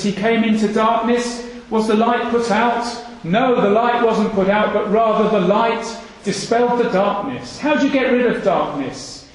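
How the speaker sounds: earnest sermon build; preaching. Acted. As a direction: drive the point home to the congregation.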